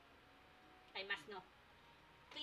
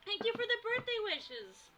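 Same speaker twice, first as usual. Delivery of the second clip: much higher and slower, drawn-out cheer; high, slow cutesy thanks; 12 semitones higher, 4 dB louder than usual. Shown as a demonstration. Streamer thanking chat in a high drawn-out voice. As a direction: stretch it out up high and sweet. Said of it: "repeats thanks in a high voice".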